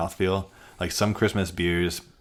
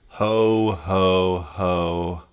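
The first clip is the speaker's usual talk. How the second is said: jolly ho ho ho; 5 dB louder, much slower than usual. Pretend. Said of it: "how many ho ho ho's are you giving this".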